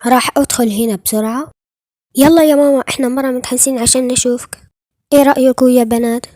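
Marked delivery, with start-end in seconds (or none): 2.2-2.8 much louder, higher eager call. Acted. Girls urging mother to come out. 5.1-6.3 mother and daughters admiring the new abaya; excited reveal. Acted.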